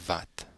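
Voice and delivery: "wat" begun with a v, as "vat"; v sound. Shown as a demonstration. Teacher showing the Afrikaans sound, v-initial "wat". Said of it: "this is a v sound".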